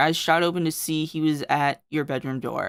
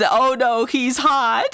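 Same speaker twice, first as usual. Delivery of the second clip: high, loud, laughing swoon; mock lovestruck wail; swooning Squidward; 7 semitones higher, 6 dB louder, slower than usual. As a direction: gush like a flustered cartoon squid.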